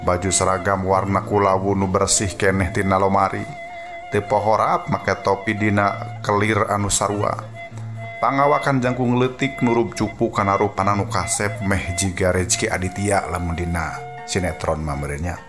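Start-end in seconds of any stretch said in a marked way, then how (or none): none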